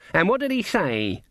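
eager question, pitched high; expectant. A narrator's reading. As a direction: ask it awaiting good news. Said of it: "said Granny expectantly".

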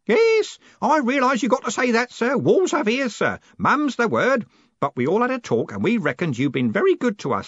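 put-on high, loud old man; knowing loyalty turning to a touch of defiance; old Grote, conspiratorial then defiant.

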